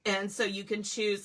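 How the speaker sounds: talking through hiccups; words broken by a hiccup. Real, not acted. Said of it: "sorry, I've got hiccups".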